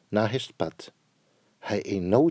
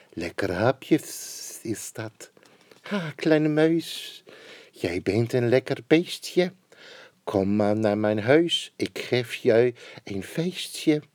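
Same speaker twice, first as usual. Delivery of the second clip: sly snake; slower than usual. Acted. Snake invites the mouse home, slow and sly. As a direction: lure the mouse in slowly.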